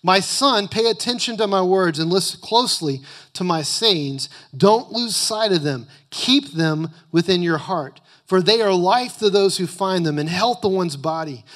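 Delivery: loud, emphatic scripture reading; preaching. Acted. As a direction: preach the verses with full force. Reads scripture at full force.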